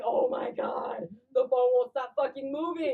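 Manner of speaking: drawn-out exasperated freak-out; hammed-up stoned distress; mock panic. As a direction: act out helpless panic over a phone. Acting out panicked phone dialing.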